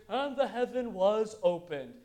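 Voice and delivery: slow, measured scripture recital; drawn-out, routine verse reading; undramatic Bible reading. Retold or imitated. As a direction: read it out evenly, as a familiar verse. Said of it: "we read that in our, in our English".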